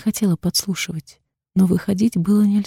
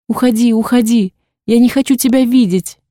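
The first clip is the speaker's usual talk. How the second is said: furious shout; 4 semitones higher, 5 dB louder than usual. A narrator's reading. Daughter sends father away.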